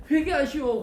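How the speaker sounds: high, quick grudging call; reluctant proclamation. Retold or imitated. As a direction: toss off "회개하시오" high and fast. 요나는 기분이 안 좋아요.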